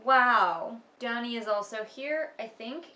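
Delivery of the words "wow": sarcastic wow. Real, not acted.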